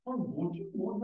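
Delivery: usual speaking voice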